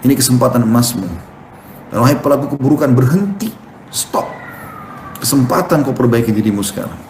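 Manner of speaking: an angel urging believers in Ramadan; angel calling out. Retold or imitated. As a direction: call people like a heavenly herald. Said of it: "Allah utus malaikat khusus untuk menyuruh".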